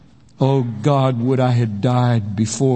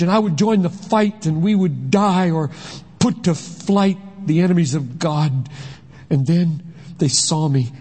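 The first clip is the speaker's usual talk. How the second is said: put-on higher, urgent young man's voice; 5 semitones higher than usual. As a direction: tell the escape breathlessly. John Mark tells his escape.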